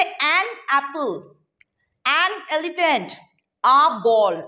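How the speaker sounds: "an apple, an elephant" drawn out slowly, with a clear "an"; slow, careful classroom example; slow teaching demo. Shown as a demonstration. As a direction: model the article slowly for the class. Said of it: "অ্যান বলবো".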